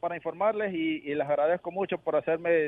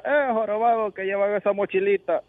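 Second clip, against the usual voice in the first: higher, moderately raised heckling call; grito burlón actuado; 4 semitones higher, 4 dB louder than usual. Acted. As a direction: call out like a street heckler in a joke. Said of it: "un tipo y le grita". (grito moderado, más agudo, de un chiste)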